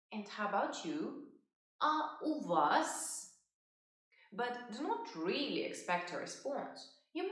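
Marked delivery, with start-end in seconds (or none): 1.8-3.2 slow model phrase. Shown as a demonstration. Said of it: "you could say".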